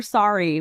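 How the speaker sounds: "sorry" with the Midwest open "sah-ree" vowel. Shown as a demonstration. Guest showing the Midwest habit of saying "sorry". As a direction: say "sorry" like a reflexive Midwest apology. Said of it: "We say "sorry" for everything".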